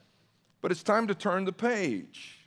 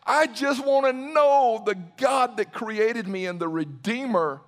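emphatic declaration; 3 semitones higher, 3 dB louder than usual. Retold or imitated. Preacher quoting Paul's longing to know Christ, emphatic declaration. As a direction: voice Paul's words with emphatic, rising force. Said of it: "Paul just emphatically declares".

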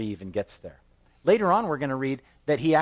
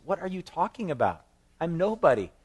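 incredulous protest; 7 semitones higher than usual. Retold or imitated. Pastor paraphrases Saul's disbelief.

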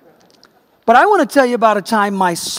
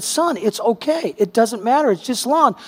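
reassuring father; 3 semitones higher than usual. Retold or imitated. Father reassuring his upset son.

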